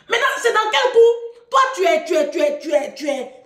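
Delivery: high, exasperated scolding; retold telling-off. Daughter scolding her absent father, exasperated. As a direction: launch high into reproach, then stumble over repeated words. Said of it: "Je lui ai parlé comme ça à mon père".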